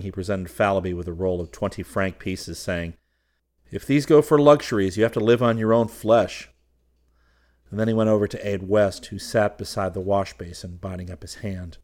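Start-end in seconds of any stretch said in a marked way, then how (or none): 3.7-6.5 high, loud, amused scolding; laughing warning. A narrator's reading. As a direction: warn a friend loudly, in jest. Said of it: "Then, laughing".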